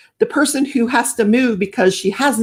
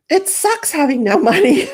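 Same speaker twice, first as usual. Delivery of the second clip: rueful laugh; 9 semitones higher than usual. Real, not acted. Laughing off money trouble.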